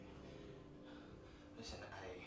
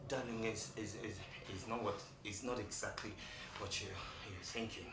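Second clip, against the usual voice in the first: low, halting, stuttered excuse; nervous stammering; 11 semitones lower, 6 dB quieter than usual. Acted. Husband caught by his wife, nervous stammering. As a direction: fumble for an explanation, voice sunk low.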